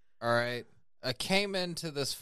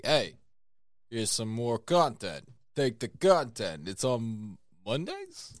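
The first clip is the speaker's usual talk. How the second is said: put-on Stallone accent; 4 semitones lower than usual. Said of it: "Is that Ukrainian or Russian accent?".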